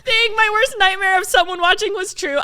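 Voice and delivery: high, loud, wailing shriek; retold humiliation at full volume; mortified outburst. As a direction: cry out in comic horror.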